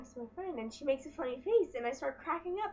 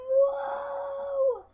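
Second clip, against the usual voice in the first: loud, high whoop; excited shout; 12 semitones higher, 10 dB louder than usual. Acted. Cheering to kick off her vlog. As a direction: throw it out with glee. Hyped intro exclamation.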